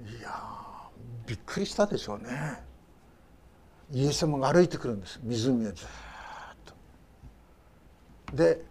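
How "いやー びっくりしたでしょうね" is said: breathy hush of amazement; hushed awe. Retold or imitated. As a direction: whisper it as if awestruck. Imagining the disciples' shock. (ささやくような驚き)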